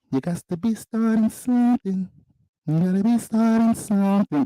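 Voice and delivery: hyped astrology call. Pretend.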